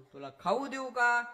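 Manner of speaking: high, coaxing voice of a mother; a mother pleading with her baby. Retold or imitated. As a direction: coax the little one gently but loudly.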